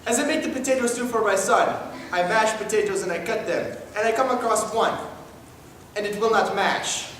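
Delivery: high, loud doting mom voice; overexcited mother. Acted. Mother character again.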